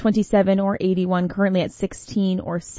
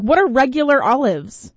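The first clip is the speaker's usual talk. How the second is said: puzzled demand; 4 semitones higher than usual. Retold or imitated. Host to wife about olives, firm puzzled question. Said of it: "I was like".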